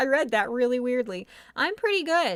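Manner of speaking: loud yelling from sheer excitement. Speaker answers a listener's greeting, yelling. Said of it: "I realize I'm yelling".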